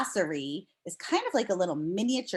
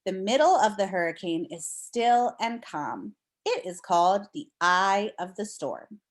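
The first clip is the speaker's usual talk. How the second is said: clear, expressive read-aloud voice; reading to children. Acted. Teacher reading a storm book to her class, storybook read-aloud.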